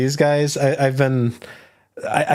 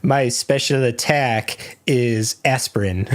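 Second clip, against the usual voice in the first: D and D character; slower than usual. Pretend. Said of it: "It sounds like a D and D character".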